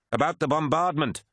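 high, outraged realisation; acted accusation. Crewman accusing commander over bombardment, outraged.

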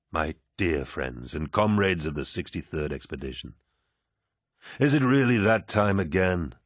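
commanding warrior lord. Acted. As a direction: speak like a genial, mighty lord. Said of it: "His voice was like honey, like steel".

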